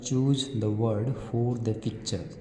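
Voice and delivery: very slow, deliberate English read; slow classroom read-aloud; reading a question aloud. Acted. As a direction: read the worksheet question word by word for children. Reads worksheet question slowly.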